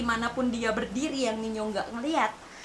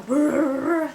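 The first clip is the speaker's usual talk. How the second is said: imitated muttering; 4 semitones higher, 4 dB louder than usual. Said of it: "dia masih keep on".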